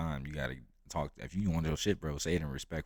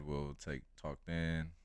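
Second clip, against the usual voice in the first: put-on Jamaican accent; much slower than usual. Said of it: "in his thick Jamaican accent".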